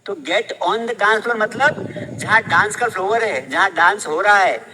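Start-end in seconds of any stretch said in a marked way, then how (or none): 0.1-1.4 very slow dictation. Shown as a demonstration. Teacher repeating song line.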